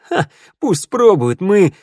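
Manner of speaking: defiant boast. A narrator's reading. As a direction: throw down a challenge, then break off. Defiant boast, cut short. (с вызовом, задорно)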